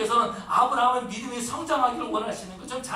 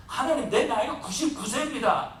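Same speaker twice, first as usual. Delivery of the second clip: laughing Abraham. Retold or imitated. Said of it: "웃는 거예요".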